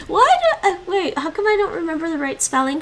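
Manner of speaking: laughing through the words. Real, not acted. Streamer laughs at forgetting a spelling, laughing. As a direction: giggle at your own slip.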